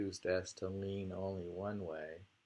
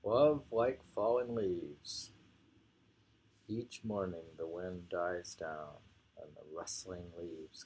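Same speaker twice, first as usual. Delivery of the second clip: poem reading. Acted. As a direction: savour the title, then let the verse fade. Reads whole poem again.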